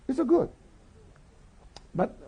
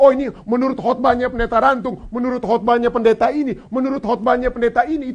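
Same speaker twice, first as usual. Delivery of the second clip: slightly raised, quick recital; imitating churchgoers; 4 semitones higher, 3 dB louder than usual. Congregation quoting pastors' sermons as knowledge, imitated. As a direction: mimic believers citing one preacher after another. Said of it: "mungkin seperti kita katakan sekarang".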